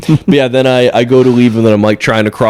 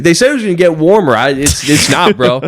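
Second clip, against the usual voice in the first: bro impression; 5 semitones higher than usual. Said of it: "He's like".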